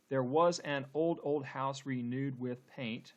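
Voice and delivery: slow, measured verse with every beat audible; deliberate syllable-by-syllable reading; syllable-counting reading. Shown as a demonstration. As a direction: count out the beats of "old house renewed with paint". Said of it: "let's count the number of syllables".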